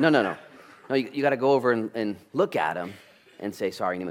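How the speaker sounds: correcting his son firmly, half laughing; firm dad correction. Retold or imitated. Dad telling his son how to apologize, loud and insistent. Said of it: "I said".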